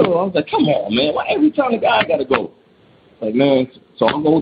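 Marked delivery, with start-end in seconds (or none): 0.5-2.5 high-pitched mock whine; comic reluctant complaint; retold reluctant protest. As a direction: protest being sent in, pitched way up. Husband protests being sent in.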